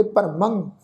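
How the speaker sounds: ਭਰਮੰ closing on a nasal "ng"; ਭਰਮੰ with a nasalised final syllable; nasal ending. Shown as a demonstration. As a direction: end ਭਰਮੰ in the nose. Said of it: "ਨਾਸਕੀ ਉਚਾਰਨ ਕਰਾਂਗੇ".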